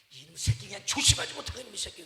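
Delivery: loud mock scolding of a hurt kid; mother scolding. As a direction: scold like an exasperated mom. (다친 아이를 꾸짖는 엄마 흉내)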